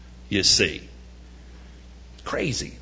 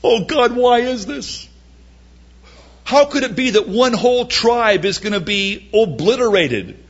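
mock weeping lament; 7 semitones higher than usual. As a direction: wail to God, then let it sink. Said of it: "they wept sorely".

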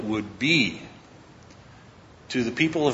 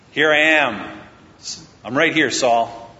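raised, deliberate call; 3 semitones higher, 3 dB louder, slower than usual. Acted. David comes out and reveals himself to Saul, calling out. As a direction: announce yourself across a distance, lightly acted. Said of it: "David comes out and says".

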